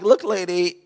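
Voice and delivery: tired retort. Retold or imitated. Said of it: "Look, I was tired".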